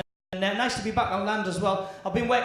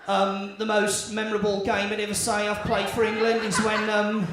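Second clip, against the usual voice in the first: David Beckham impression; 2 semitones lower than usual. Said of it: "David Beckham turned round and he said".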